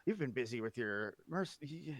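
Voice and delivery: sincerely asking him back; NPC voice. Acted. NPC brother speaking to Mac.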